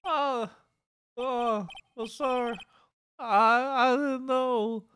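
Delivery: high, loud whiny country cop; panicked hick officer; good ol' boy. Acted. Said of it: "redneck voice".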